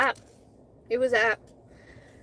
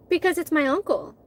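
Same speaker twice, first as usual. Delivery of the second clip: said it like that; 4 semitones higher than usual. Retold or imitated. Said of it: "I literally said it like that".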